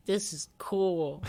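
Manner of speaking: lightly voiced young fan; impressed kid. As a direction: breathe it out, impressed. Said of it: "and I was like".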